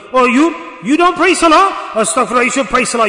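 high, loud public telling-off; mock shouting. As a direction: call him out self-righteously, falling away from the first shout. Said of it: "he shouts out".

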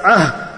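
demonstrated sigh from the heart; lover's sigh. Shown as a demonstration. Preacher showing the sighing from the ashik's heart, demonstrated sigh. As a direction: let out an "ah" like a lovesick sigh. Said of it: "the sighing coming out of the ashik's heart".

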